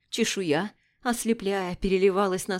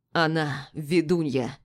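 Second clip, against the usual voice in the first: dry correction; 3 semitones lower, slower than usual. Acted. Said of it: "Сухо поправил брата Эридан".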